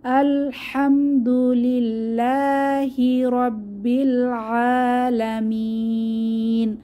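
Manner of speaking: slow chanted verse for students to follow; drawn-out tajweed reading; Quran recitation. Shown as a demonstration. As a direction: recite it slowly so the class can repeat. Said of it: "আমার সাথে পড়ুন".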